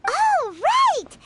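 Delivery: high, loud burst of a new idea; light up as it clicks; sudden realisation. Real, not acted.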